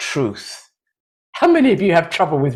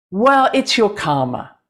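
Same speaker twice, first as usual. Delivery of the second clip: lightly acted coaxing, pitched higher; persuading left brain; 4 semitones higher than usual. Left brain arguing with the heart, mildly coaxing. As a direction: try one more angle of persuasion. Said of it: "your left brain comes up with all the reasons".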